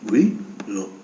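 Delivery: lightly caricatured politician with rising "hein" tics; restless, stop-start patter, jumping up on tag words; Nicolas. Acted. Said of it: "c'est Nicolas". (légère imitation d'homme politique, aux « hein » montants)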